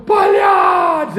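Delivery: put-on loud drunken yell of a name across the room. Drunk neighbour shouting the friend's name across the emergency room, loud yell. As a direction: belt out the name, very high and loud. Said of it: "Ele deu um grito".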